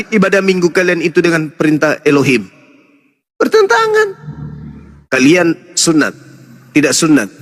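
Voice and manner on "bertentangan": very high, held answer; emphatic self-answer. Real, not acted. Debater answers his question about Sunday worship, very high emphatic answer. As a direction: send the answer soaring and hold it.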